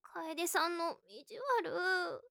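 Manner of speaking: pouting sulk. Acted. Pouting at teasing.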